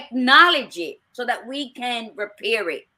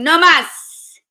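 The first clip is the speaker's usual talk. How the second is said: shouted no more; 8 semitones higher, 13 dB louder than usual. Retold or imitated. Calling it quits, mock cry.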